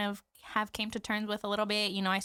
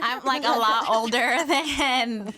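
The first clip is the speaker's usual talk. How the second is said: laughing; 4 semitones higher, 6 dB louder, slower than usual. Real, not acted. Laughing about her age.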